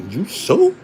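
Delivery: high, startled you sure; quick high double-check; surprised. Retold or imitated. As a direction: jump up high in mock surprise. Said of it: "I was like".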